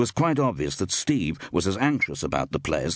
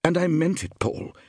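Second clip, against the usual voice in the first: high, breezily emphatic assurance; flippant; 9 semitones higher than usual. A narrator's reading. Actress recalling her letter to him, flippant. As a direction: confirm it airily, pitched up. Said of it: "agreed Iris flippantly".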